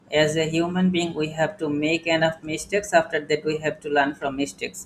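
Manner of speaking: very slow, word by word English; slow dictation. Shown as a demonstration. Teacher dictating an English saying slowly to the class. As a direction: spell out the maxim slowly for students.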